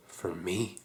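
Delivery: very low, hushed question; stunned disbelief. Acted. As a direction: barely get the question out, incredulous. Stunned at father's excuse.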